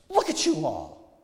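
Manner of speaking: preaching prophet. A narrator's reading. Prophet to the gathered shoppers, reproving. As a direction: call the crowd to attention.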